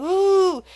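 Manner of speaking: mock cheering whoop; imitated crowd cheer. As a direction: mimic a cheering crowd without full volume. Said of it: "people around cheering and going".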